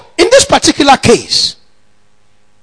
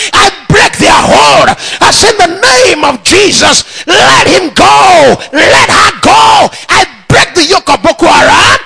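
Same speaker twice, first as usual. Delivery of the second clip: shouted declaration; 4 semitones higher than usual. Shown as a demonstration. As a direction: declare it with full authority, like a command.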